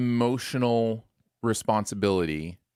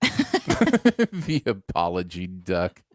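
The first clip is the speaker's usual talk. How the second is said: laughing; 3 semitones lower, much slower than usual. Real, not acted. Laughs at joke duck.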